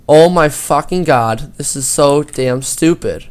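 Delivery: slow, exasperated griping; exasperated complaint. Retold or imitated. Student griping to his friend about detention, exasperated. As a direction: drag it out in retold exasperation.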